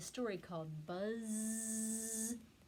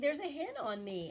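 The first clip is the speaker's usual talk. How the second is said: mild pig voice; 6 semitones higher, 4 dB louder than usual. Acted. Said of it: "said the pig".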